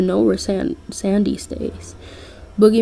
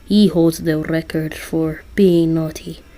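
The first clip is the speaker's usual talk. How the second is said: lightly done Russian Santa; bad Russian accent; 3 semitones lower than usual. Santa telling Listener about the nice list, bad Russian accent. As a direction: attempt a Russian accent, half-successfully. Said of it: "I'm terrible at doing a Russian accent".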